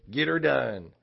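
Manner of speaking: a hint of a comedian's catchphrase delivery; Larry the Cable Guy. Preacher quoting a comedian to the congregation, light impression. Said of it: "about Larry the Cable Guy".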